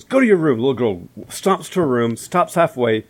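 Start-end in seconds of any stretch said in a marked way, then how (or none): 0.0-0.6 stern order. Retold or imitated. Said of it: "she says".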